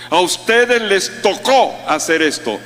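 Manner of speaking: mock imposing tone in a changed voice; bossy imposition. Preacher imitating a domineering leader, mock bossy. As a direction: sound like a leader dumping a duty on people. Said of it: "Él no habla así".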